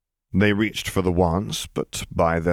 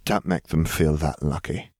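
exasperated sigh; 3 semitones lower than usual. Acted. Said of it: "and sighed before saying".

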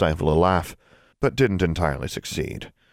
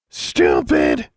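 loud, low croaked word; raven croak; 3 semitones lower, 6 dB louder than usual. Acted. Raven Charlie repeats.

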